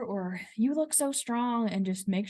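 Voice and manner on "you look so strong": raised, stretched-out praise; mock encouraging yell. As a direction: imitate an instructor cheering someone on. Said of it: "like, yell out".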